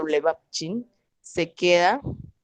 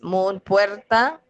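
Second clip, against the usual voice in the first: "mun" drawn out slowly before "puerta"; teacher slowing down on "mun"; slow demo; 3 semitones higher, much slower than usual. Shown as a demonstration. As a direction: spell out the word slowly for the class. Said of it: "son dos palabras muy diferentes".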